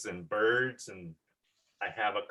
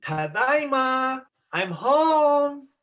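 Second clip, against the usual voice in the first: cheerful homecoming call; 11 semitones higher, 4 dB louder, much slower than usual. Acted. Returning hero calls home.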